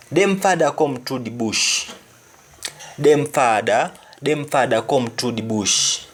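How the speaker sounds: "Them father come through the bush" in Jamaican patois, "them" said "dem"; teacher models the Jamaican patois phrase. Shown as a demonstration. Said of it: "Their father is coming through the bush".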